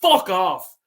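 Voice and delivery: loud, cutting fuck off; angry retort. Real, not acted. Fan dismissing the club's image, loud angry retort. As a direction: spit it out in disgust. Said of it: "sorry for cursing".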